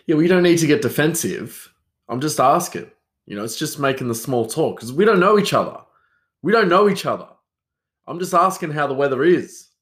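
a hint of mock irritation; mock cranky. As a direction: play at getting huffy with an imaginary listener. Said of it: "Oh, I'm getting cranky".

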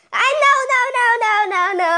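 loud, high panicked pleading; terrified horror victim. Acted. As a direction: beg in terror. Screaming after car runs off.

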